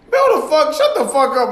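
mock outburst. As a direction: snap back at him, half joking. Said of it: "I was like".

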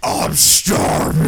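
Chris Farley impression. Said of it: "Chris Farley".

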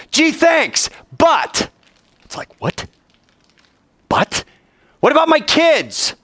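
high, complaining voice; whiny Abraham. Acted. Abraham whining to God about his kids, high. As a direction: complain like an ungrateful man.

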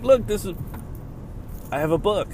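high, loud bragging voice; proud and excited. Pretend. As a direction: show off your new book. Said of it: "and be like".

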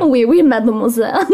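a hammed-up French accent, cracking up; terrible French accent. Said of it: "in a terrible French accent".

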